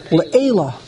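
Le'ela stressed ahead of its last syllable; stress before the end. Shown as a demonstration. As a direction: say Le'ela with the weight early, not on the final syllable. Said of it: "you say Mila'el".

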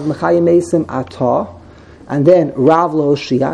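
Atah stressed on the final tah, then a break; stress on second syllable. Shown as a demonstration. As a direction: land on the end of Atah. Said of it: "what's the other opinion".

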